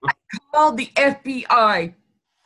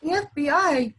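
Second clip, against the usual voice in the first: higher, halting astonishment; dumbfounded disbelief; 4 semitones higher, 4 dB quieter than usual. Retold or imitated. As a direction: retell it open-mouthed, pitched up, with a stunned pause. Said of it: "mouth's hanging open".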